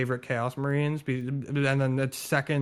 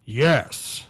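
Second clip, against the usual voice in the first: a lightly robotic text-to-speech "Yes."; flat machine-like "Yes.", in a hint of a robot voice; TTS Rogal Dorn; 4 dB louder than usual. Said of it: "let me get my best T T S Rogel Dorn impression".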